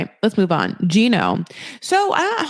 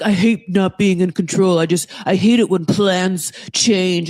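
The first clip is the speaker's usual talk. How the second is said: mocking complaint; 3 dB louder than usual. Mocking the man's quoted complaint.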